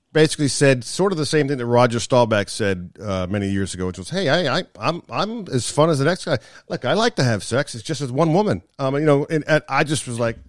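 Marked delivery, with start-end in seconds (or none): 4.1-8.6 higher-pitched mock German accent; imitated German accent. Golfer answering whether he ever jokes, in an imitated German accent. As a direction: put on a light German accent. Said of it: "the way he said it in that accent".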